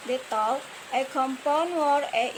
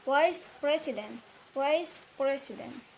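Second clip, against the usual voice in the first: "vice" stressed in "vice president"; stress on first word; 4 dB quieter than usual. Shown as a demonstration. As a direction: lean on "vice", let "president" drop away. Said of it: "and stress, a placement".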